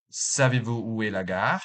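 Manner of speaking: "gare" lifted in pitch at the end of the question; rising question tune. Shown as a demonstration. Teacher showing learners a French question rising at the end. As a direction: raise the voice on the final word "gare". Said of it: "the intonation will rise at the last word".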